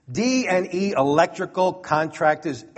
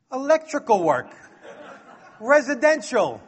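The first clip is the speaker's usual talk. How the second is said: much higher, the answer broken by laughter; laughing through it; 5 semitones higher than usual. Retold or imitated. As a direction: chuckle out the bluffed answer. Retelling his bluff.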